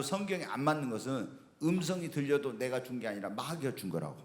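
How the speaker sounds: low, quiet voice of the Lord; voice of God. Retold or imitated. Pastor quoting God's teaching, low and soft. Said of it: "주님이 저한테 그런 거예요".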